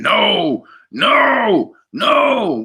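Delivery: high crying wail of no; retold screaming. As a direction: mimic a man wailing at the door. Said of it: "He was screaming".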